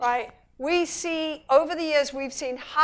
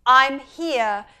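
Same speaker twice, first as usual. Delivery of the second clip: a hint of a mother's comfort; lightly voiced reassurance; reassuring mother; 7 dB louder than usual. Mother answers her baby, mild comfort. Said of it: "where the mother says".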